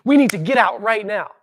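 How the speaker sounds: loud, rising robot warning; robot alarm. Retold or imitated. Body on red alert, mock robot alarm. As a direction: sound the alarm like the Lost in Space robot. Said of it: "It's like".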